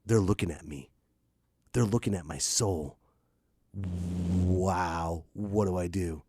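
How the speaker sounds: put-on a kid caught staring into an adult's eyes; scared kid. A kid getting eye contact, awed and scared. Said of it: "they're like".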